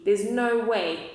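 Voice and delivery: slow scornful denial; kangaroo mother. Acted. Mother kangaroo scoffs at Horton, slow scornful voice. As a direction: drag it out, not believing a word. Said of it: "So the kangaroo says".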